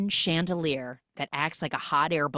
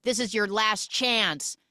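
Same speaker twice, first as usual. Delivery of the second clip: slow, raised mock-threatening warning; mock ultimatum; 6 semitones higher, 3 dB louder than usual. Villain gives the last chance in a retelling, mock ultimatum. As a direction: deliver a drawn-out final warning.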